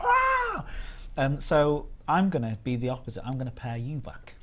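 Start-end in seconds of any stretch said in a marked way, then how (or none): 0.0-0.6 mock wow. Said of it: "And I'm like".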